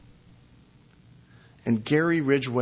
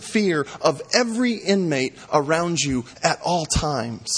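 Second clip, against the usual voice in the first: retold angry outburst; 4 semitones higher than usual. Preacher voicing victims' families cursing the killer, angrily. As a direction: read the families' curses with heat. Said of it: "Some shouted at Gary Ridgway".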